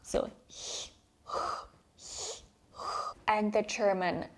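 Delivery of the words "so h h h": throat ch sound. Shown as a demonstration. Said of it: "it's h".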